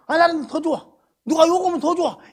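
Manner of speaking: ordinary talk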